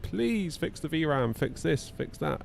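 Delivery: fading plea; hammed-up slow begging; mock pleading. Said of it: "we're like".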